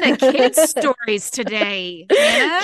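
squealing laugh, high and loud; laughing crying. Real, not acted. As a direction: laugh until it breaks into a squeal.

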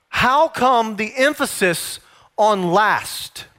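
very slow, each word drawn out; slow emphasis. Shown as a demonstration. Preacher to congregation, slow deliberate question. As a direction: slowly lean on the question so the church locks in. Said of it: "It's a very important point".

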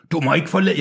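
a woman's cry left close to the reader's own voice; too-manly female character's shout. A narrator's reading. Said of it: "hun råber meget mandigt".

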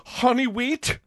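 high, loud military reply; drill sergeant. Pretend. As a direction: snap back like a recruit. Sandwich clerk as soldier.

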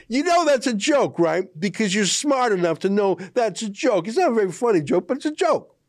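high-pitched, incredulous insistence; incredulous, high and emphatic; amused exasperation. Real, not acted. Exasperated, amused disbelief at gullible reporter.

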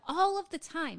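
ALL punched high and loud; emphatic repeat. Real, not acted. Cohost stressing how hard the board member works. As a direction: hammer home all of the time.

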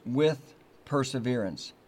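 "with perseverance" said slowly and deliberately; stressing two words. Shown as a demonstration. Preacher naming the verse's key phrase. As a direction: draw out "with perseverance". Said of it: "the emphasis ... is on those two words".

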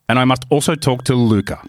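lightly put-on Italian English; measured mock-Italian delivery; Italian accent. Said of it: "try and do an Italian accent".

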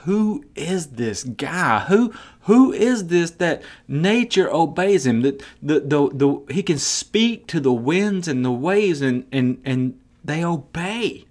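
hushed then rising disbelief; awed disciples. Retold or imitated. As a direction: ask it in slow amazement. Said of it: "and they're like".

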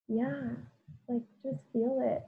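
quiet, gentle voice talking herself through pain; soft self-soothing. Retold or imitated. Crying on the bathroom floor, she comforts herself gently. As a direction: hush and comfort yourself like a buddy.

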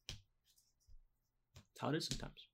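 slow, breathy whispered repeat; whispered echo. Acted. Host to viewers, echoing his point in a slow whisper. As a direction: let it fade to a whisper.

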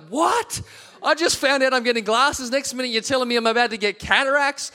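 replaying his own stunned reaction; retold disbelief.

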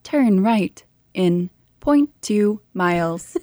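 slow, even satnav voice; GPS navigation voice. Retold or imitated. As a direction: read it like a car navigation system. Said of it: "a G P S navigation voice".

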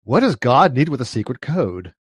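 slow Shatner-style delivery with halting breaks; halting, self-admittedly weak Shatner impression. The speaker quotes Star Trek in a slow, halting Shatner voice. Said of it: "but Shatner's voice".

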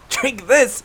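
high, wheezed incredulous echo; wheezing. Acted. Winded hunter refusing the potion, wheezing. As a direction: throw it back as a strained, rising question. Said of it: "His wheezing voice".

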